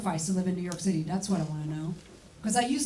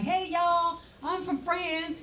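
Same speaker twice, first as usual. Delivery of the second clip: much higher, bubbly hey y'all; cheery mock greeting; 8 semitones higher, much slower than usual. New arrival hailing New Yorkers, higher and bubbly. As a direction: greet strangers with naive glee. Excited on Fifth Avenue.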